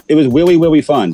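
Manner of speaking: "willy willy" with w for r; says w for r. Pretend. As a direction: say "willy willy" for really really. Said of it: "jokes on w for r".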